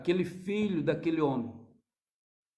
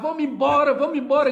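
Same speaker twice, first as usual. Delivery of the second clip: shouting; 8 semitones higher, 9 dB louder than usual. Retold or imitated.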